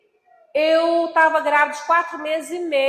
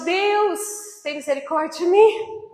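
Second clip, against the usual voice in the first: retold tearful plea; 4 semitones higher than usual. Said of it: "como eu chorei".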